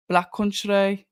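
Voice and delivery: half-managed Black Country twang, drawing out the end of "Country"; Black Country accent impression, abandoned quickly; attempted Black Country accent. Shown as a demonstration. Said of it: "I can't do that accent".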